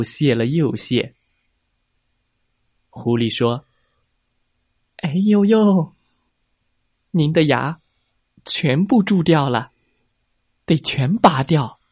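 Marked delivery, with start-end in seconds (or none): 5.0-11.8 fake doctor fox.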